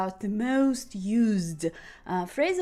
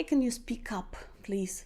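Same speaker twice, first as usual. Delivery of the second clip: demo request; 6 dB quieter than usual. Shown as a demonstration. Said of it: "you can say".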